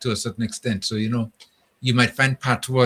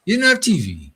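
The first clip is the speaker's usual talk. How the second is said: put-on kid's disbelief; 9 semitones higher, 5 dB louder than usual. Kid asking in disbelief.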